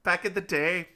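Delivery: a Scottish storyteller's lilt, lightly done; Scottish accent. Acted. Scottish man telling a coffee shop story, mock Scottish accent. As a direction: tell the tale in a Scottish accent. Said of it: "this accent I have right now".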